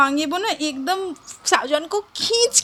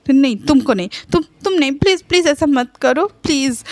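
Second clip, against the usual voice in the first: desperate pleading; 3 semitones higher, faster than usual. Acted. Shahjahan begging Wang Yibo desperately.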